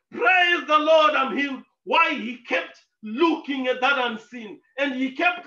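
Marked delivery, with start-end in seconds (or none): 0.1-1.6 drown out the preacher with joy; shouted praise. Retold or imitated. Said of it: "he would say".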